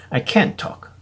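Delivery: "can't" stressed, t dropped. Shown as a demonstration. Teacher showing negative form, stressing can't. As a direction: press on "can't". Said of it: "can에 저 액센트를 주시면 돼요".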